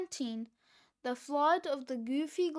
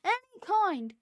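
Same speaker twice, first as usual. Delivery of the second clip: high, loud impatient shout; screamed; 6 semitones higher, 5 dB louder than usual. A narrator's reading. Fluffy answering Cheeseball while falling, screaming. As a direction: yell it, no time to choose. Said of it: "screamed Fluffy".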